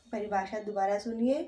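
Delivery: usual speaking voice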